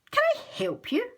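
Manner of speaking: Mister Fox. A narrator's reading. Mister Fox voiced in story.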